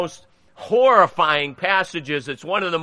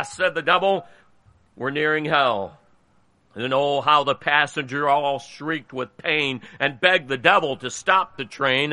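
measured, rhythmic reading of a cowboy ballad; storytelling cadence, line ends dropping away; poem recitation. A narrator's reading. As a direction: read the verse aloud line by line, with pauses. Reads a cowboy poem aloud.

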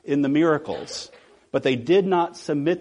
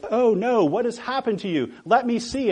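higher-pitched, concerned mom voice; worried mother; 8 semitones higher, 3 dB louder than usual. Retold or imitated. Mother answering her screaming little boy, in worried alarm. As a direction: fuss over a hurt child, imitating a mother. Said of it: "And his mother says".

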